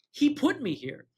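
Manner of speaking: high-pitched mock indignation; high, put-upon whine of blame; retold indignant complaint. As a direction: imitate an aggrieved neighbor, pitched right up. Neighbor accuses the dog.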